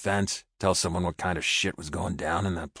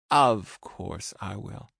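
woman's voice; 4 semitones higher, much slower than usual. A narrator's reading. Amy answers.

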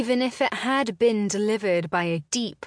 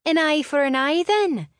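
sharp, much higher and louder challenge; seething; 10 semitones higher, 7 dB louder than usual. Acted. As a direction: fling it at him in fury.

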